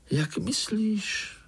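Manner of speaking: high, slow offended fly. Acted. Golden fly taking offence at the spider, high and slow. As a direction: pull back in a huff. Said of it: "urazila se zlatá muška".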